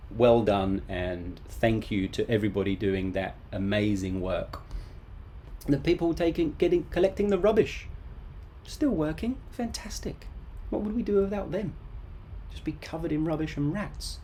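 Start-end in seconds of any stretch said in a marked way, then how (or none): 5.7-14.2 high enthusiastic praise. Real, not acted. Praising rubbish collectors, high voice.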